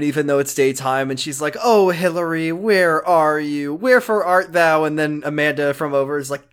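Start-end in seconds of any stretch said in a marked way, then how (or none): 1.6-4.8 slow, drawn-out mock-Juliet lament; theatrical pining. Lori longing for Hillary at the moon, theatrical pining. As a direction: stretch it out like a hammy balcony plea.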